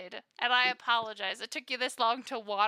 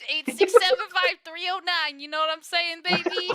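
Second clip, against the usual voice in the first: smooth flirt; 6 semitones higher, 11 dB louder than usual. Acted. Flirty NPC number reveal.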